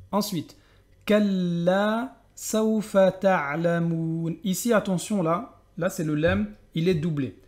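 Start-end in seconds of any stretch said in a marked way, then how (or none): 1.1-4.4 chanted Hatta zurtumul maqabir, very slow; drawn-out chanted verse; slow recitation. Shown as a demonstration. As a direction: recite it like a Quran reader.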